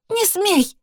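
very high, shrill yelled protest; shout back. A narrator's reading. Sister defending her mother, screaming back. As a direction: scream to stop him. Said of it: "закричала в ответ".

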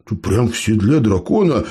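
ordinary delivery, nothing marked

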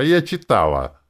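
high, loud insistent peep; squeak. A narrator's reading. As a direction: squeak it defensively. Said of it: "пропищала Ленора".

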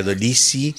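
"Dolisi" with the double e read as i; English-style double E. Shown as a demonstration. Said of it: "esa cosa de pronunciar la doble E".

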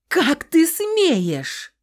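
high, loud, slow scream; screaming at the top of her lungs. A narrator's reading. Heroine outraged at Nikolai, slow loud scream. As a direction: scream each word at him. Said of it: "Заорала во всё горло".

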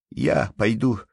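mild cry. Acted. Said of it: "вскричал Ванюшка".

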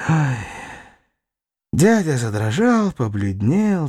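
ordinary delivery

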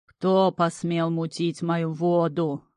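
slow rolling water-devil boom; booming bass. A narrator's reading. Bog master demanding who stirred his water, slow booming bass. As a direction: roll it out like an angry bog spirit. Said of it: "раскатисто пробасил он".

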